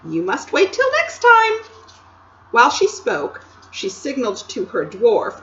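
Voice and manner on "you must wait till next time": with a laugh. Acted. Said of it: "with a laugh".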